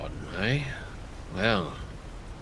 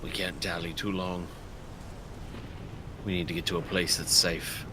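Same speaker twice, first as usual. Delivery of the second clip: whisper; 7 semitones lower, 10 dB quieter than usual. Acted. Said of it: "I was whispering to Kosef".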